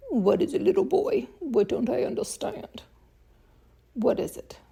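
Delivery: high, scoffing mock question. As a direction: toss the question back with scorn. Mocking commenters' excuses.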